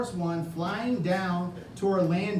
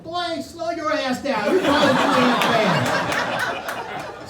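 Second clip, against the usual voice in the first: higher, slow, louder scolding; scolding old ladies; 8 semitones higher, 8 dB louder, slower than usual. Retold or imitated. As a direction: chide him like annoyed old ladies. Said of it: "all the ladies are like".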